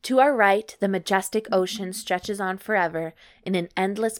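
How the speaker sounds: measured, evenly paced read-aloud; story narration. Acted. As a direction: narrate it like an audiobook. Reads erotic story aloud.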